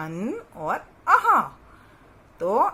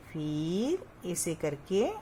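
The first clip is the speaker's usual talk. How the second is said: slow; 2 semitones lower, 4 dB quieter, slower than usual. Shown as a demonstration. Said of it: "धीरे धीरे से आपको लिखना है".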